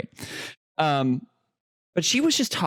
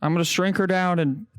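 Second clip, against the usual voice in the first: Biden impression. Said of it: "put the Joe Biden voice".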